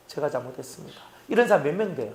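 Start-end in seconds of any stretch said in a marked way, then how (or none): 0.1-1.0 soft, low admission of fault; meek apology. Acted. Member admitting fault to the pastor, meek and hushed. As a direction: drop the voice and own up meekly.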